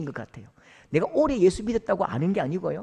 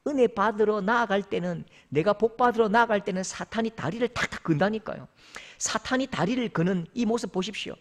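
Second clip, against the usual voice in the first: normal talking voice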